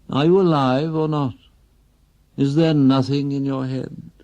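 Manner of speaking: rising frustration that tips into accusation; exasperated wife. Acted. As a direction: hammer at him with each question. Wife badgering silent husband.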